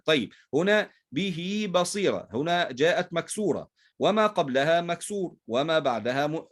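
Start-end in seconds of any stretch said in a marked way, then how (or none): 1.1-2.3 "به" as bihii before "بصيرة"; ha joined with ya. Shown as a demonstration. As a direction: lengthen the final i of "به" into a ya. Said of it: "فتوصل بحرف مجانس للكسرة وهو الياء".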